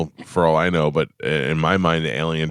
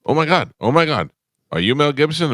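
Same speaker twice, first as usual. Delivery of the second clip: starstruck fan; 7 semitones higher, 4 dB louder than usual. Retold or imitated. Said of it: "the guy's like".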